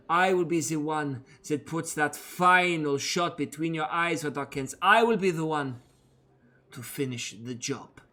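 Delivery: menacing, defiant vow; Danica, vengeful prisoner. Acted. Danica threatening Red R while dragged off, menacing. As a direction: promise revenge through clenched defiance.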